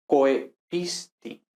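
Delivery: COEPISTI slowly as coe-pis-ti; diphthong, syllable by syllable. Shown as a demonstration. Teacher demonstrates Latin example, slow separated syllables. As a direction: break "coepisti" into beats, OE glided as one. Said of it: "Exactamente así los pronunciaríamos".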